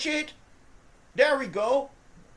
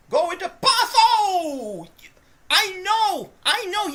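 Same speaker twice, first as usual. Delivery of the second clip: higher, louder, with a laugh; surprised laugh-yell; startled laughing shout; 7 semitones higher, 9 dB louder, slower than usual. Real, not acted. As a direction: react to a vicious hit. Big hit on the receiver.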